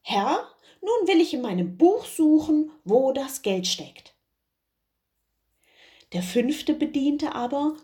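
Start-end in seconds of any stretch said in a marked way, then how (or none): 0.0-4.2 Doktor. Acted. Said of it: "ging wieder hinein und sprach".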